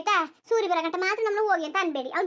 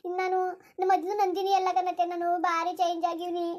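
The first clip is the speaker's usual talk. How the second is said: a lightly voiced young wife, begging humbly; pleading daughter-in-law. Daughter-in-law begs her in-laws.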